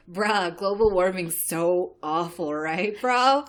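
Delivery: a slow, laid-back surfer dude drawl; surfer dude accent. Retold or imitated. Co-host showing a card read in the surfer accent, laid-back. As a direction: lazily stretch it out like a surfer. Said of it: "So you have to be like".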